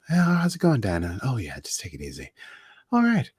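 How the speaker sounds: lightly voiced gentle painter; a hint of a mellow TV painter; Bob Ross voice. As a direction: soothe the cat calmly. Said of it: "this is getting really Bob Rossy".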